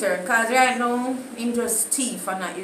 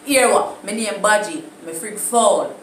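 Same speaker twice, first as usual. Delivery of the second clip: louder, bragging Jamaican patois with laughs; hammed-up patois boasting; patois brag; 4 dB louder than usual. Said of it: "Anyways, my time".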